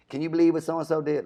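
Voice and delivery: high, loud gossipy voice; gossiping. Retold or imitated. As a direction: dish the dirt like a gossip. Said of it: "somebody talking about somebody else".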